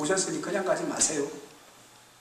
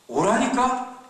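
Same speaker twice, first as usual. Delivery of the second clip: drawn-out, raised insistent call; older brother ordering his runaway brother home, drawn-out and raised; insisting; 10 semitones higher, 5 dB louder, much slower than usual. Acted. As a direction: drag the words out, demanding he come. Brothers quarrel, older one insists.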